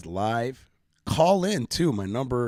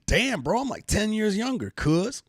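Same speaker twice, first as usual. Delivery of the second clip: high, pumped-up "damn bro" brag; imitating his own thrilled self; mock excited; 11 semitones higher than usual. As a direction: cheer yourself on like you just dropped ten years. Imagines feeling younger after boxing.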